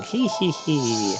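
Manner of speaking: slow, drawn-out mock "hee hee hee"; villain's giggle. Witch plans to brainwash her again, slow mock giggle. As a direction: stretch out a read-aloud villain giggle. Reading second witch's laugh aloud.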